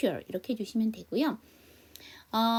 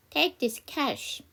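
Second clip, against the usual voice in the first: slow, clear offer line; slow practice read; 2 semitones higher, much slower than usual. Shown as a demonstration. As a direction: say it slowly for repeating. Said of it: "여기 저랑 같이 한번 연습해봐요". (천천히 따라 하게 읽기)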